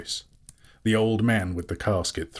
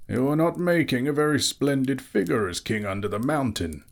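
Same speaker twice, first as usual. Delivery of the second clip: high, measured rebuke; reproving wizard Gandalf; 7 semitones higher than usual. A narrator's reading. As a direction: rebuke him with wizardly authority.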